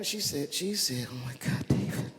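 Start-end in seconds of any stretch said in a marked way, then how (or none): 1.1-2.1 imitating crying wife. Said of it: "she's crying".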